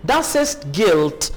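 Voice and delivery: Geld said slowly with the d ending as a clear t; pronunciation demo. Shown as a demonstration. Teacher shows students that the d in Geld sounds like t. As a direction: Das ist Geld, slow, ending Geld on a crisp t. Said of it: "डी को आप टी pronounce करेंगे".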